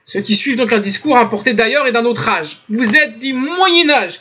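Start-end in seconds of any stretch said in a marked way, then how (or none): 2.7-4.2 reproche parodié, traînant et lent; étirer l'accusation avec moquerie; reproche imité. Retold or imitated. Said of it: "comme ça ils disent". (reproche moqueur imité)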